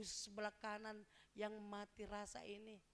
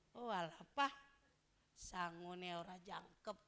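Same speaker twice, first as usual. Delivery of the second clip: put-on complaining child; 4 semitones lower than usual. Acted Javanese family complaint.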